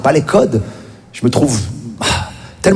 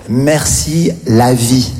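slow, lower sarcastic read of merci la vie; mock caption; 5 semitones lower, much slower than usual. Mocking an influencer caption.

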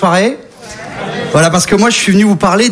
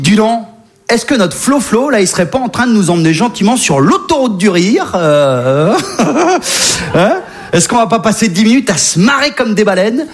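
public qui se moque; 2 semitones higher than usual. Retold or imitated. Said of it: "vous dites".

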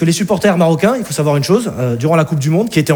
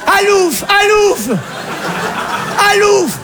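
mother shooing; 12 semitones higher, slower than usual. Acted. Alsatian mother waving ham at the fiancé, high shooing cries. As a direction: drive him off with ham. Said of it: "elle met une tranche de jambon dessus".

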